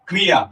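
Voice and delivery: "ক্রিয়া" with a rolled r after k; trilled r. Shown as a demonstration. Teacher gives an example word, trilled r. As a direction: let the r vibrate in "ক্রিয়া". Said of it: "এইগুলো যে কাঁপে".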